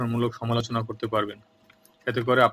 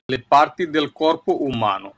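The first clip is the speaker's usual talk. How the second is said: slow careful Italian; 4 dB louder, much slower than usual. Shown as a demonstration. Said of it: "প্রত্যেকটি শব্দকে দুবার করে উচ্চারণ করবেন".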